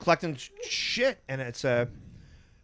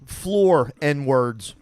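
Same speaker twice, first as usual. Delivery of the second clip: retold punchline; 7 dB louder, much slower than usual. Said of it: "He goes".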